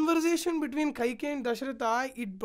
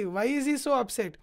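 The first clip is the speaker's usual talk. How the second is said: usual speaking voice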